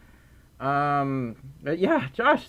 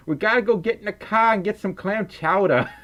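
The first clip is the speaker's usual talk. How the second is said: mock Maine accent; 5 semitones higher than usual. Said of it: "stereotypical Mainer accent".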